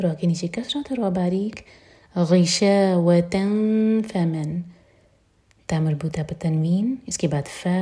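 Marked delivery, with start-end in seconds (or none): 2.2-4.6 very slow, louder, drawn-out word; slow tajweed recitation. Shown as a demonstration. Teacher reciting the word slowly for students. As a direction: draw غشاوة out for the class. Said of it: "فا کے لیے اخفا".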